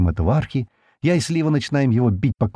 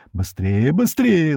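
urgent yelling; 5 semitones higher, much slower than usual. A narrator's reading. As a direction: urge them on, second cry much higher. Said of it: "начали они орать".

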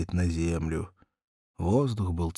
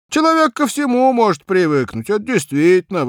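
put-on higher, complaining young cabman; whiny cabman Vanka; 13 semitones higher, 10 dB louder than usual.

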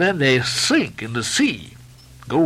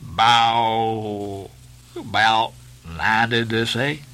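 gloomy mutter; much slower than usual. A narrator's reading. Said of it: "He gloomily muttered".

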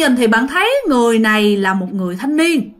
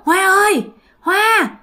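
imitated urgent name calls, high and raised; insistent calling; 9 semitones higher, 4 dB louder than usual. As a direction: call out repeatedly, each cry pitched high. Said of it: "Mà nó kêu dồn dập vậy đó".

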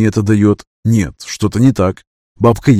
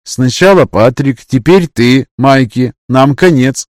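put-on despairing girl voice; 3 semitones higher, 4 dB louder, slower than usual. Yana despairs.

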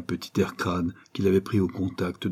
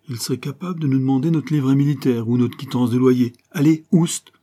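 lightly voiced bossy street urchin; slangy gamin taking charge, rising to an urgent order; a touch of the brash little street boy; cocky street kid; 3 semitones higher, 4 dB louder than usual.

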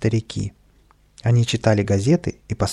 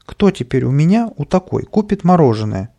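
higher, louder wail of woe; ice-cream seller lamenting; grieving lament; 5 semitones higher, 5 dB louder than usual. A narrator's reading. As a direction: mourn your ruined look. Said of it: "горевала она".

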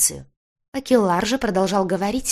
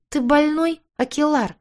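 sharp high outcry, clearly louder; higher, louder shocked exclamation; exclaiming; 10 semitones higher, 4 dB louder than usual. A narrator's reading. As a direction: throw the question at him in alarm. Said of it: "воскликнула Рита".

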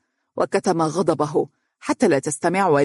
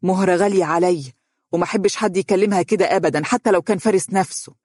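a touch of irritated firmness; annoyed; 3 semitones higher than usual. Acted. Mother defends Mahra against Dunya, mildly annoyed. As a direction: stand up for the girl, mildly vexed. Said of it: "ثم تابعت بضيق".

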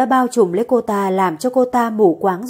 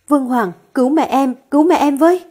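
sobbing plea; 3 semitones higher, 3 dB louder than usual. Acted. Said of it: "Khả Di khóc nức nở".

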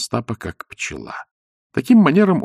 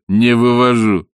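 smirking; 5 dB louder than usual. Acted. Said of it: "усмехнулся Остап".

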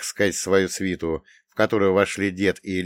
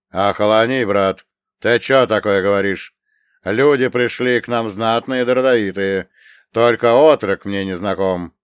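stern rebuke; 7 dB louder than usual. Acted. Elder brother rebukes drunk Grigory.

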